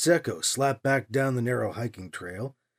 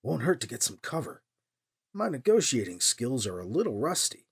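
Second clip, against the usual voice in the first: softer wry mutter to himself; muttered aside; 4 semitones lower, 6 dB quieter than usual. A narrator's reading. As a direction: keep it under the breath, dry.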